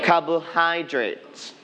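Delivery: slow "Carbohydrates", weight on "hy"; stress on third syllable. Shown as a demonstration. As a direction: model "Carbohydrates" slowly, stressing "hy". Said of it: "We are going to stress on the third syllables". (พูด "Carbohydrates" ช้า ๆ เน้นพยางค์ "hy")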